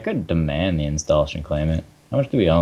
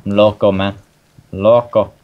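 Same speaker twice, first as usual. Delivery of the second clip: hammed-up crazy man; 3 dB louder than usual. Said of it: "I'm crazy".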